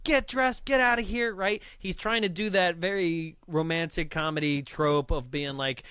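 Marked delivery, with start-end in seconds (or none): 0.0-1.3 high-pitched retold outrage; mock flipping out. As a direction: order them out in a higher, upset voice. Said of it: "immediately flips out".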